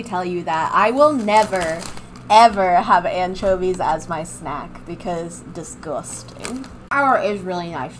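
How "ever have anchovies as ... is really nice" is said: talking while chewing chips; crunching chips. Real, not acted. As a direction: mouth full of crunchy chips. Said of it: "Don't mind my crunching".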